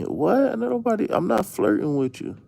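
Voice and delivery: high-pitched startled "What?"; shocked disbelief. Real, not acted. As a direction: jump way up in disbelief. Shocked reaction, pitch jump.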